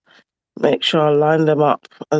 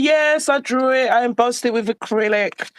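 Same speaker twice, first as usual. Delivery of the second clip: mock boasting; 6 semitones higher than usual. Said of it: "they'll be like".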